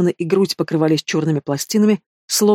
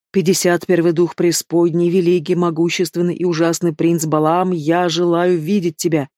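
careful slow incantation. Acted. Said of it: "соблюдая ударения и паузы между словами".

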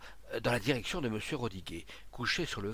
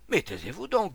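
high, loud demand for silence; exasperated hushing; 7 semitones higher, 7 dB louder than usual. A narrator's reading. Onlooker to the noisy crowd, exasperated order. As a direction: shout down the chattering crowd.

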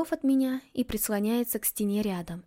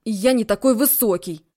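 much louder frustrated cry; exasperated shout; 8 dB louder than usual. Acted. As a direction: fling it out. He mimics her, arms up.

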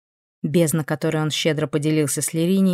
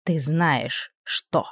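что hit hard and final; stress on что; much slower than usual. A narrator's reading. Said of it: "делая ударение на последнем слове".

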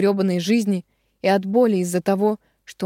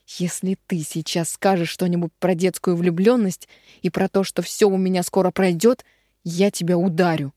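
ordinary delivery

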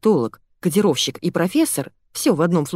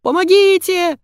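much higher, louder wail; wailing for help; 13 semitones higher, 5 dB louder than usual. A narrator's reading. Fyodor wails as Zaya beats him. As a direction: howl for help. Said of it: "заголосил Фёдор".

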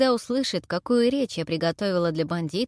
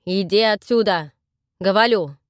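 shouting; 8 dB louder than usual. Acted. Dan shouting at deaf granny.

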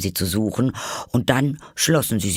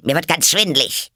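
loud, high, agitated outburst; worked-up, irate; 8 semitones higher, 5 dB louder than usual. A narrator's reading. Queen fed up with the bowing, irate. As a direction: exclaim it in a heated fluster. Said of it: "ereiferte sich die Königin".

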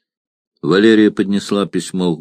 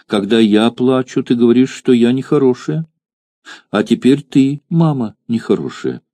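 put-on little girl; 4 semitones higher than usual. Child speaks to mother.

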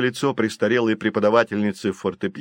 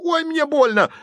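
high wailing cry; boy howls after being hit; howling in pain; 3 dB louder than usual. A narrator's reading. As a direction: yelp it out much higher. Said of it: "который тут же взвыл".

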